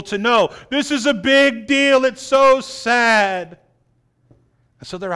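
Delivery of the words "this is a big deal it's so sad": higher, slow, hammed-up lament; mock wailing mourner. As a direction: overdo the grief like a paid mourner. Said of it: "they will cry and moan and wail".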